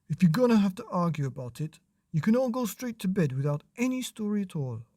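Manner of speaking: fast, firm telling-off; a hint of an exasperated father; stern dad. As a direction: scold the kids quickly. Dad scolds arguing kids.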